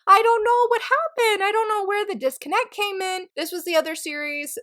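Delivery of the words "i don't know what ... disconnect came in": bummed. Real, not acted. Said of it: "I was so bummed".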